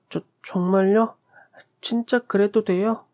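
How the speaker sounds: put-on high, slow, wide-eyed child voice; a small boy who can't believe his luck; little boy. Young boy asks the kind man, in a high child voice.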